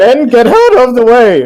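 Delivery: voice cracking upward, very high and very loud. Voicing a character shouting a command: voice cracking mid-command. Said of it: "his voice cracks".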